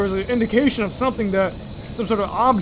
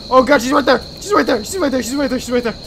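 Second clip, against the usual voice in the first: rattled, urgent rapid-fire alarm; panicked repeating; faster than usual. Real, not acted. Player spotting the pursuer right there, panicked. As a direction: blurt it over and over in panic.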